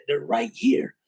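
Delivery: hushed whisper, listening for puppies. Retold or imitated. Ear to the floor, whispering to himself. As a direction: breathe it so the puppies don't hear.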